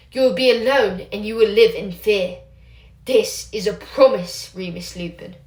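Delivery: a hint of a hag relishing the threat; threatening witch. Livia threatens Remus.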